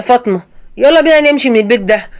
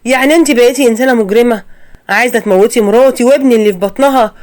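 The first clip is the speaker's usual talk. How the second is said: hurt confrontation; 2 semitones higher, 3 dB louder than usual. Acted. Son confronts mother, shocked.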